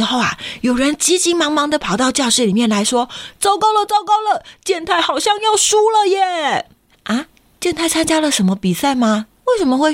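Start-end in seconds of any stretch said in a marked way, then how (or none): 3.4-6.7 high, urgent alarm; alarmed announcement. Acted. A classmate rushes in shouting Kenta may lose. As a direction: burst in with bad news.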